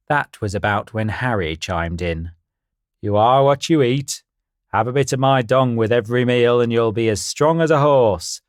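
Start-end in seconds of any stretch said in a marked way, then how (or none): 3.0-8.4 louder, boastful stallion; confident horse voice. Acted. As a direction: puff up like a proud horse. Harry voiced in story.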